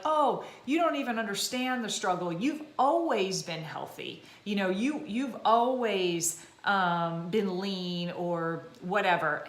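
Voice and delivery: slow, dismissive skeptic voice; lightly voiced doubter; dismissive critic. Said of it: "they're like".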